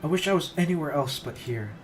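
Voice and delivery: building to a loud cry; breakdown shout. Acted. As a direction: shout it while pulling free. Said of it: "shouting at me while tugging furiously".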